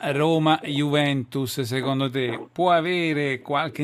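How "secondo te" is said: ordinary talk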